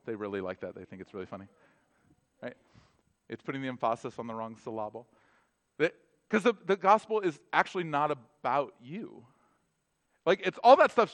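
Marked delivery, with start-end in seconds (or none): 3.4-5.1 softer joke repeat, "emphasis" as em-FAH-sis, "syllable" as sil-LAH-bul; quietly misplace the stress onto the middle of "emphasis" and "syllable"; wrong-syllable stress. Shown as a demonstration. Repeating the kids' joke softly, "emphasis" and "syllable" stressed on their second syllables.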